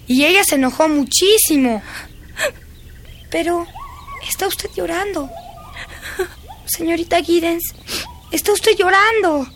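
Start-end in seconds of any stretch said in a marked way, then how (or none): 3.3-9.5 noticing tears. Real, not acted. Governess crying, child notices.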